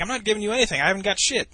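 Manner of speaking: high-pitched imitation of protest; indignant refusal. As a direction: act out a roommate digging in. Retold roommate refusing demand for money.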